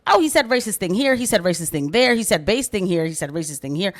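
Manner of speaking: a mock whiny dismissive tone; mocking critics. Host mimicking critics who clip racist moments, mildly mocking. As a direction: parody the clip-choppers, lightly. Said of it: "everybody else with the clips is like".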